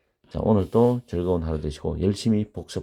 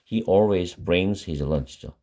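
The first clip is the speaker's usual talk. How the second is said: slow model sentence; much slower than usual. Shown as a demonstration. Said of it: "teacher models the sentence slowly".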